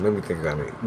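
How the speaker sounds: soft muttered musing; quiet to himself. Real, not acted. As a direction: drop it almost under your breath. Repeated to himself.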